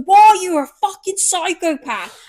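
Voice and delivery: groggy outrage. Retold or imitated. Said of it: "he goes".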